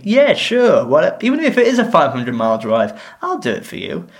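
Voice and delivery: mock eager. Mock eager offer, then retracts.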